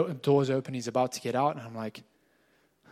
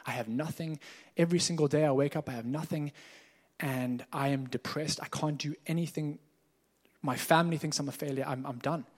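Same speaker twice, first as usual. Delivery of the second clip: softer, heavy-hearted retelling; quiet despair; 5 dB quieter than usual. Retold or imitated. Pastor retells Bernard's despair, softer and heavy. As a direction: let the words sink under the weight.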